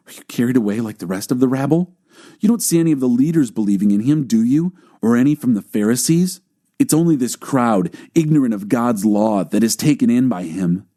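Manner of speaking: fast scoffing put-down; scornful Pharisees. Acted. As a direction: dismiss the rabble with contempt.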